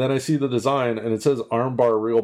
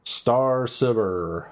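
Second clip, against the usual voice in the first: drawn-out nickname; 3 semitones higher, much slower than usual. Pretend. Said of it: "as I like to call him".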